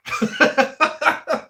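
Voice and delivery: high burst of laughter. Real, not acted. Amused by the poll idea, high laugh.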